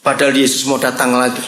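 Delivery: usual speaking voice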